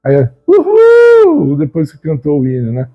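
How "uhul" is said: very high, sustained "woo-hoo" cheer; high-pitched female whoop. Retold or imitated. Imitating women cheering after the gospel hymn, high-pitched whoop. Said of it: "que é uma voz mais aguda".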